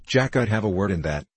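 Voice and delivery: ordinary delivery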